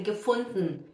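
gefunden as "ge-fund-n"; E thrown out. Shown as a demonstration. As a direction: end gefunden on d plus a bare n, falling. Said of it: "jogasse o E fora".

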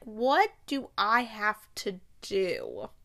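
slow, drawn-out plea; dramatic drawn-out question; exasperated plea. Retold or imitated. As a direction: stretch each word out in mock desperation. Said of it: "and I was like".

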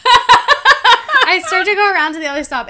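giggling while telling the story; laughing. Real, not acted. Friend teases her, she answers laughing.

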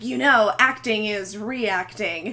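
lightly imitated pompous douche, drawn-out ending; mock a self-important actor, stretching the last words; douchey actor. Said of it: "like, such a douche".

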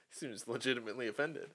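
soft unvoiced aside; whisper. Real, not acted. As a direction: whisper it under the movie. Whispered aside during movie.

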